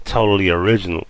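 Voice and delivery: normal talking voice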